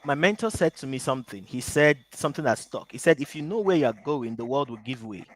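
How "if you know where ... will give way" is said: quick, run together; fast. Shown as a demonstration. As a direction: rattle the saying off. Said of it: "I said that very fast".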